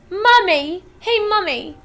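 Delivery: high, loud, slow whiny demand; spoilt demanding girl. Acted. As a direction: insist like a spoilt brat. Veruca demanding.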